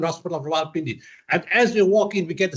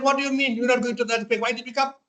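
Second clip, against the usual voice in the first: incredulous team; 8 semitones higher, faster than usual. Retold or imitated. Team protests, raised pitch.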